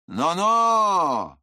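loud, high roared warning; Andreev's warning growl. A narrator's reading. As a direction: roar a sharp warning at him. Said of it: "рыкнул на него Андреев".

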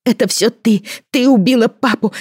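put-on high, loud child's hateful scream; hysterical screaming. A narrator's reading. Son screaming hatred at his mother, high and loud. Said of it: "Ил перешёл на крик".

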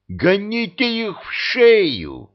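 high, slow, alarmed cry; frightened shout. A narrator's reading. Alyosha panics at the visitors, frightened high shout. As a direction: yelp it out in a fright. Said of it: "испугался Алексей".

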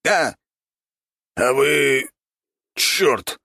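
high squeaky shout; squeaky villain outburst; rat lord voice. A narrator's reading. Rat lord exclaims in story.

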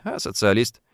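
"социалист" said calmly and properly; correct pronunciation, teacherly. A narrator's reading. Antoshin correcting Afrikanov, calmly models "социалист". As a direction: give "социалист" its full proper vowels, like a teacher. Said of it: "очень спокойным и негромким учительским голосом".

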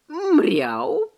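high announcing cat meow. Acted. Ginger cat announces himself to the heroine, high meow. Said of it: "возвестив о своём появлении".

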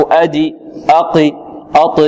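أدي أقي with the bounce sliding into an i vowel; qalqala tilted to kasra. Shown as a demonstration. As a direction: let the echo lean toward kasra, the error. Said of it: "في الدال تقول أدي". (قلقلة مائلة إلى الكسر)

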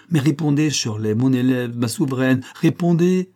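building from firm to a loud, high "répondez"; rising plea. Acted. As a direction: press her harder until it bursts out.

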